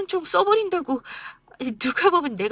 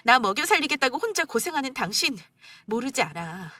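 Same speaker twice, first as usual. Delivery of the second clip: much higher, near tears, breaking at times; wife tearfully confronting husband on mother's birthday; 6 semitones higher than usual. Acted. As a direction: pour out the hurt, close to crying.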